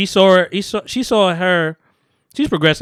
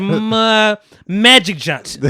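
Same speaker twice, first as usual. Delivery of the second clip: laughing; 5 semitones higher, 5 dB louder, much slower than usual. Retold or imitated. Retold quote, laughing through it.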